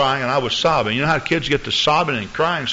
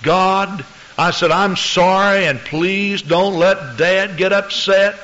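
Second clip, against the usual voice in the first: retold child's prayer; 5 semitones higher, slower than usual. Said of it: "I prayed all afternoon".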